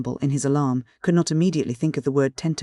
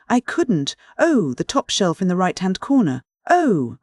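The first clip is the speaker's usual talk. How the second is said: distressed; 4 semitones higher, 3 dB louder than usual. Acted. Matron in a fit of spasms.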